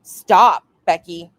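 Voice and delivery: retold fed-up plea with a loud, punched STOP; exasperated mock scolding; imitated exasperation. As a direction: imitate a friend who has had enough. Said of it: "she'd be like".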